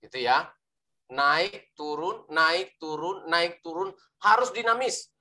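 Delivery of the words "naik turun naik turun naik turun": rhythmic see-saw of "naik" and "turun"; up-and-down intonation. Shown as a demonstration. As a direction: alternate a lifted "naik" with a lighter "turun". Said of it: "intonasi suara yang bagus itu harus begini".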